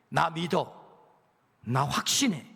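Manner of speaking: a hint of God calming his people. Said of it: "하나님은 우리를 설득하는 거예요".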